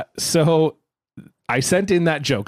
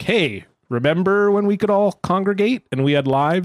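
mock cheery crowd work; 4 semitones higher than usual. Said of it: "I'm just gonna be like".

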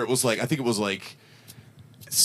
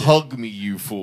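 slow theatrical line; hammy stage line; 5 dB louder, slower than usual. Retold or imitated. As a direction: deliver it like a stiff school play. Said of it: "they changed the line to".

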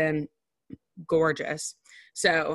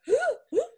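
mock gasp. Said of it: "gasping for air".

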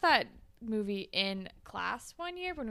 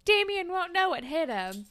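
high excited quote; 9 semitones higher, 4 dB louder than usual. Retold or imitated. Quoting Manny's pep talk.

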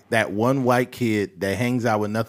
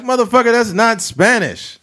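high, loud call-out; loud outburst; 11 semitones higher, 5 dB louder than usual. Retold or imitated. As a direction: yell it in disbelief. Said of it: "You're like".

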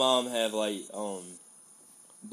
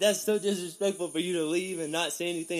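mock scolding mom; 8 semitones higher than usual. Scolding mom voiced in story.

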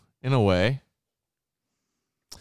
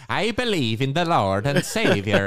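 put-on failed German accent. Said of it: "That's, like, Irish".

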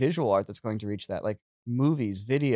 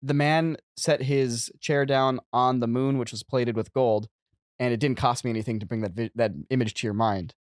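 storytelling read. Shown as a demonstration. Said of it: "I can write".

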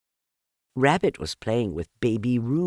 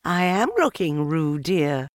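higher, firm scolding mother; stern motherly rebuke; severe; 8 semitones higher, 4 dB louder than usual. A narrator's reading. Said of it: "said Kanga rather severely".

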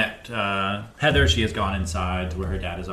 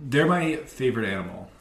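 laughing; 2 semitones higher, 11 dB louder than usual. Retold or imitated. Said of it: "Lyra is like".

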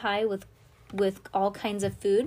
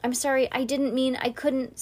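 tearful; 6 semitones higher, 5 dB louder than usual. Acted. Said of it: "said Cass tearfully".

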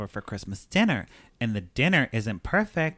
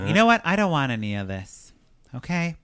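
defiant outburst; 5 semitones higher, 3 dB louder than usual. Retold or imitated. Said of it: "And she's like".

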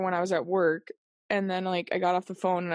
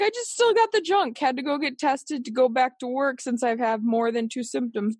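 imitated friend; 4 semitones higher than usual. Voicing friend's text message.

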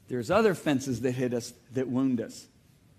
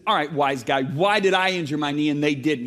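retold anger; 6 dB louder than usual. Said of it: "I got mad".

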